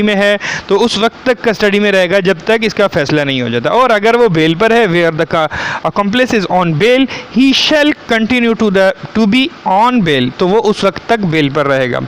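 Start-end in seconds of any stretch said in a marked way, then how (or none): 4.9-10.4 slow, deliberate reading of legal text; statute read-out. Acted. Lecturer reading the law to students, slow read-out. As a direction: read it out slowly, word by word.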